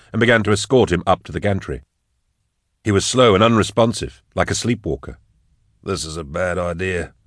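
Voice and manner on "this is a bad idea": quieter, muted unease; murmured. A narrator's reading. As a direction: murmur a misgiving under your voice. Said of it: "Da Vinci murmured".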